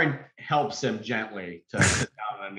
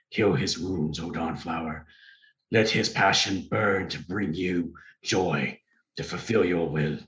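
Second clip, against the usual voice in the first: solemn prayer. Acted. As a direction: pray earnestly over the wounded. Cleric prays over wound.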